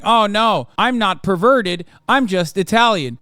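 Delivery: mock protest of innocence; mildly hammed-up excuse from an institution; mockery. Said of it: "making a mockery of said institutions and saying".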